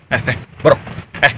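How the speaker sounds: loud thug barking orders; bully your men into obeying; bullying boss. Acted. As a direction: gang boss to henchmen, loud and bossy. Gang boss bullies henchmen.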